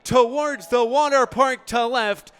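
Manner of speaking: loud, high, slowed home run call; big booming ballpark call. Acted. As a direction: let the cannonball fly with the voice.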